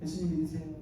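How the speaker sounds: soft, lazy mumble, chuckling through it; half-hearted preaching. Retold or imitated. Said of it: "설렁설렁 외쳤어요".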